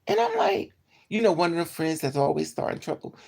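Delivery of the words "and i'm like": high-pitched. Retold or imitated. Excited retelling.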